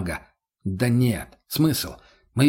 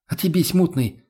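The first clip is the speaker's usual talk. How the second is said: Lena's exhaled retort; 5 semitones higher than usual. Acted. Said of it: "выдохнула Лена".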